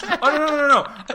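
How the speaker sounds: high, loud mock French accent; a hammed-up French accent. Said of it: "That was my French accent".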